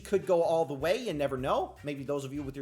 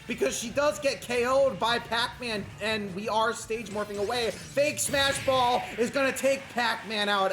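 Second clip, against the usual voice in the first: lively, slightly raised commentary voice; play-by-play; 6 semitones higher, 5 dB louder than usual. Real, not acted. Commentator narrating Peach against Pac-Man, live play-by-play. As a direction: call the match as it happens.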